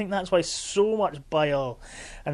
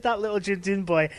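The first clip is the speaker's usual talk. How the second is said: laughing; slower than usual. Real, not acted. Quoting friend while laughing.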